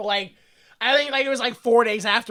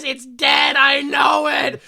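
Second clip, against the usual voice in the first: mock distraught wail; 4 semitones higher, 5 dB louder, much slower than usual. Voicing upset Angela.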